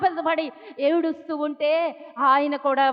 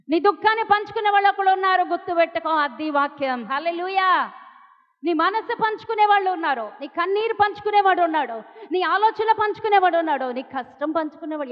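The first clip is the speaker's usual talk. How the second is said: slightly raised, insistent preacher's voice; rousing preaching; 4 semitones higher, 3 dB louder than usual. Real, not acted. Preacher assures congregation someone shares their grief, rousing. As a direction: drive each promise home to the crowd.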